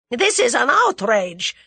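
loud, high, slow outraged cry; Russian coward crying out, high and loud; high, hysterical. A narrator's reading. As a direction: protest in hysterical alarm. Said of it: "in a high, hysterical voice".

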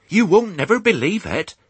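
high-pitched gabbling country farmwife; excited cry. A narrator's reading. Farmer's wife greets husband back from market, excited cry. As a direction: cry out the news in rustic speech. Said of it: "cried Missus Hoggett".

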